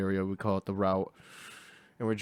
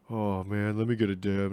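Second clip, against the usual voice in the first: casual. Retold or imitated. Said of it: "and all casually".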